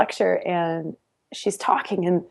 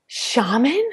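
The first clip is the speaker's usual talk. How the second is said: scoffing; 5 semitones higher than usual. Retold or imitated. Skeptical inner voice quoted.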